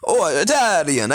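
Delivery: sing-song mock Italian accent; hammed-up Italian accent; Italian accent attempt. Shown as a demonstration. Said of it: "I do best at Italian and Russian".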